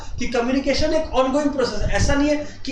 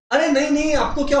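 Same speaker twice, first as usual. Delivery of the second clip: sarcastic; 3 semitones higher than usual. Shown as a demonstration. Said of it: "sarcasm दिखा रहा है".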